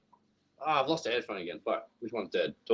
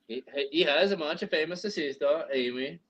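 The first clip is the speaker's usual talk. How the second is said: put-on Danish accent. Telling a friend about Greg, mock Danish accent. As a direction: play a chatty mock Dane. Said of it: "You did the Danish".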